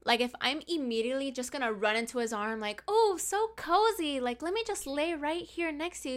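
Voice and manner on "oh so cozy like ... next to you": mock gushing. Her mocking the idea of snuggling a stranger, fake gushing. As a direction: pretend to swoon over the snuggle, sarcastically. Imagined gushing, sarcastic cuddling up.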